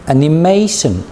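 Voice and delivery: animation, stressing the MA syllable; stress on animation's third syllable. Shown as a demonstration. Teacher models word stress for learners, animation stressed on MA. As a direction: say animation with weight on MA. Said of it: "I highlight the stress in this word".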